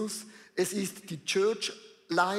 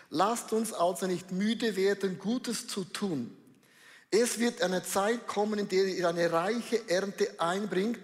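langsam und getragen vorgelesen; feierliche Bibellesung; slower than usual. Acted. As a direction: den Vers bedächtig verkünden. Reads Bible verse slowly. (Bibelvers ruhig und langsam vorlesen)

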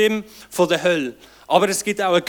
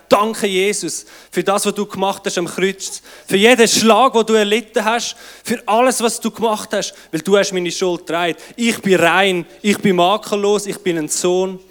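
fervent acted prayer, swelling louder on the suffering; thankful prayer; 4 dB louder than usual. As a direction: pray out thanks with rising conviction. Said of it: "ich gehe auf die Knie und sage". (eindringliches, vorgesprochenes Dankgebet)

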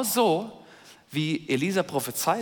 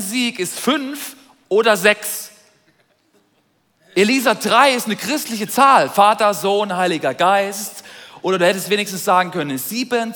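complaining king; 3 semitones higher, 5 dB louder than usual. Pretend. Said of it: "Wenn ich jetzt der König wäre, würde ich sagen".

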